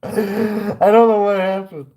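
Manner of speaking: apologizing to the angry customer, mock pleading; mock begging. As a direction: beg forgiveness theatrically.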